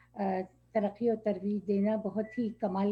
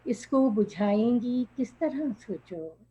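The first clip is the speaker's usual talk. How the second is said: measured verse delivery, lilting down each line; poetry recitation; 5 dB louder, slower than usual. Acted. Poet repeating her opening line to the audience, reciting. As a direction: recite the couplet for an appreciative gathering.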